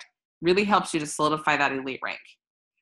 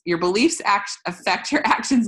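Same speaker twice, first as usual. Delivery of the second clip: laughing stumble; 4 semitones higher, 4 dB louder than usual. Real, not acted. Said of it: "Sorry, I can't talk".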